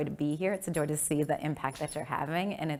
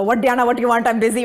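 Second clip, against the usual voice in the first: dad impression; 5 semitones higher, 11 dB louder, faster than usual. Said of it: "My dad's Indian".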